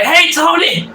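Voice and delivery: high-pitched talking dog greeting; meme dog. Retold or imitated. Speaker retells a dog meme video, high mock dog voice. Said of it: "And the dog's like".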